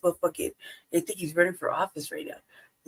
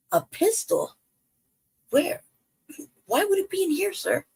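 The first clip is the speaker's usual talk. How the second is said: high incredulous feigned shock; a hammed-up innocent "a pistol? where?"; mock disbelief; 10 semitones higher than usual. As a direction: play dumb, voice shooting up in disbelief. Mock innocent janitor reply.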